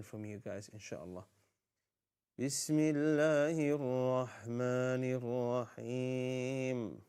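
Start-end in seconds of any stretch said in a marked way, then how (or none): 2.4-7.0 Quran recitation. Shown as a demonstration. Leads Surah Al-Falaq recitation.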